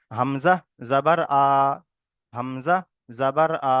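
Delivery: teacher's model of "হামজা, জাবার, আ", final "আ" held; "হামজা", pause, "জাবার" leading into a long "আ"; pronunciation demo. Shown as a demonstration. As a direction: spell out "হামজা, জাবার, আ" in separate beats. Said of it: "কেমন ভাবে উচ্চারণ হবে দেখেন".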